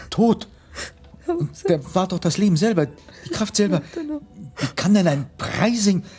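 high, loud stunned outburst; shocked disbelief. Acted. Man hears the Baron was killed, crying out in shocked disbelief. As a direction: cry out in disbelief at the news.

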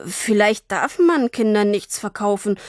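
usual speaking voice

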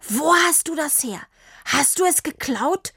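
a worried father demanding answers; suspicious. A narrator's reading. Papa questions Tini about the bike, alarmed.

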